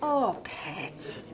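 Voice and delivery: softly whispered pity; sympathetic whisper. Acted. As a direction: breathe it out gently to a hurting friend. Friend hears sad confession.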